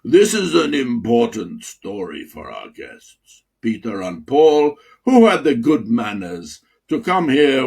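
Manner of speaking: a light Russian accent, barely put on; lightly voiced Russian accent. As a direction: read it like a gracious Russian dean. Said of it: "in my best Russian accent".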